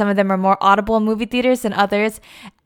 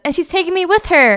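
high, louder smug gloat; gleeful gloat; 9 semitones higher, 4 dB louder than usual. Retold or imitated. Jo gloats to Amy about the Europe trip, high and smug. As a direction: crow it up high, rubbing it in.

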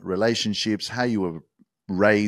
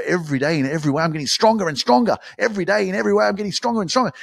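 higher and louder, building with each line; powerful incantation; 8 semitones higher, 4 dB louder, faster than usual. Shown as a demonstration. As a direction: rise into it like a battle cry. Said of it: "You can change it and go".

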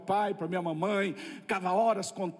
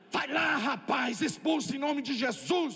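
higher, slow shouted order; shouting pastor; 4 semitones higher, slower than usual. Retold or imitated. Busy pastor yelling at Cristiano to cast it out. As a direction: yell it at the young helper. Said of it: "Gritou comigo".

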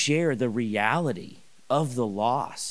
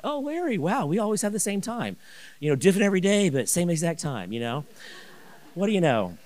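much higher, sing-song feigned coincidence; fake casual surprise; 6 semitones higher, faster than usual. Ambushing neighbor at mailbox, mock-innocent and high-pitched. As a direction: play it like pure chance.

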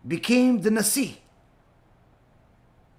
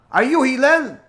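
louder taunt; 5 semitones higher, 6 dB louder than usual. Retold or imitated. Taunting question.

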